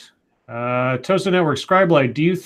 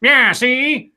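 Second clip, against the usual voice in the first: high, loud cartoon Chicago accent; 8 semitones higher, 5 dB louder than usual. Shown as a demonstration. Host warming up for a viewer's request, Chicago voice. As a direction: put on an exaggerated Chicago voice. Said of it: "in your Chicago voice".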